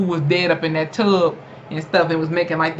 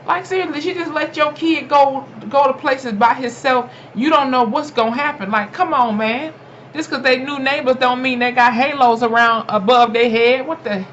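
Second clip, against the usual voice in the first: exasperated rant; 6 semitones higher than usual. Real, not acted. Ranting at the show's parents.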